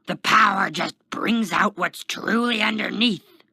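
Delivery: loud, high insistent shout; heated yelling. A narrator's reading. Kenton argues with the guard, yelling. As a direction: keep the outburst at full volume.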